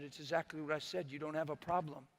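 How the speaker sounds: gentle and calm. Retold or imitated. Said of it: "the Lord stayed gentle and calm".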